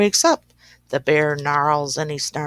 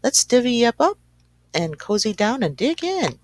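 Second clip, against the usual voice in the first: grinning badger; 5 semitones higher than usual. Badger inviting friends to share honey nuts, grinning. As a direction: sell the treat like a grinning badger. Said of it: "Badger says with a grin".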